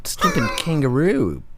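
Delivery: high, mocking voice with a laugh; hammed-up insult in a high voice; mock angry prospector. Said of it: "and he's just like".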